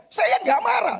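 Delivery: high, loud insistence that he isn't angry; mock indignant denial; high protest. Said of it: "saya yang ngomong".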